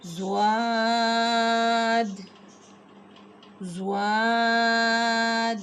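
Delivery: زواد drawn slow with a full mouth. Shown as a demonstration. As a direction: fill the mouth on زواد, slowly. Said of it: "اس کو ہم نے منہ بھر کے پڑھنا ہے".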